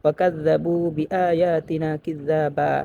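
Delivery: slow, drawn recitation ending on a long a; Quran recitation. Shown as a demonstration. Teacher reciting a verse for students, slow and drawn. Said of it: "যেমন".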